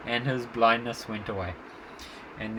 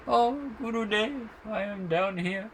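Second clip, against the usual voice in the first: high, distant cry from below; calling up from a well; 10 semitones higher than usual. Retold or imitated. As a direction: call up from the bottom of a well. Boy answers from dry well.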